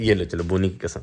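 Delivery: ordinary delivery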